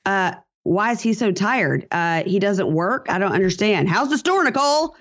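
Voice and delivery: lightly mocking the stepdad's needling; skeptical stepdad. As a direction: poke holes then land the zinger. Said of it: "And Joe's like".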